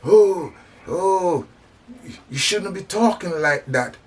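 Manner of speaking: high, scolding mock voice of the critics. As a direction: mimic the critics' prissy tut-tutting, pitched high. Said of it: "they say".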